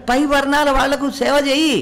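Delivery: high-pitched, emphatic order; quoted command. Acted. Voices the scripture's command, then restates.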